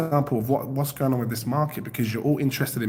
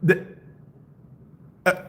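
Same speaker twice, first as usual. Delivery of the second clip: isolated broken syllables with long gaps; stalled, glitching speech; mock stutter; 6 semitones higher than usual. Shown as a demonstration. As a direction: freeze up like a lagging render. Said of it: "That's me trying to stutter".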